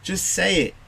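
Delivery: gentle coaxing. Retold or imitated. Father gently urging children to speak.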